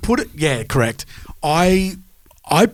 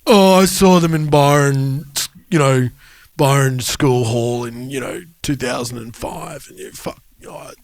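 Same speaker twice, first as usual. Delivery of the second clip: mocking snobby fan. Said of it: "plenty of people that are like".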